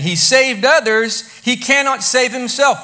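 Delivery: mocking. Chief priests mocking Jesus among themselves, loud and scornful. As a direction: announce it as a jeer. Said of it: "were mocking him among themselves and saying".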